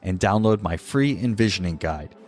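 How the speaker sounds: polished announcer read over music; scripted show opener; podcast intro read. Acted. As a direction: present the show like a radio host.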